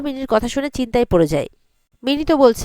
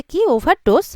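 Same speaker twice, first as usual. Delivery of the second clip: mildly shocked, higher-pitched question; startled echo; 5 semitones higher, slower than usual. Retold or imitated. Surangama reacts to Ranjanji's overdose guess, mildly shocked. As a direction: echo it back in raised-pitch disbelief.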